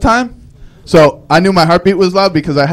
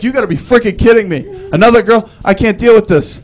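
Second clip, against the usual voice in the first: higher-pitched mock outrage; exasperated rant; 5 semitones higher than usual. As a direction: protest in comic exasperation. Acted exasperation at the GPS.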